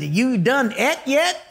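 lightly imitating a rural Montana cook's redneck accent. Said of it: "they talk with an accent like this".

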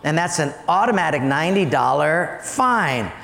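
lightly voiced low official tone; acted dry traffic cop; matter-of-fact policeman. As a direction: inform the driver of a fine. Policeman issues fine in joke.

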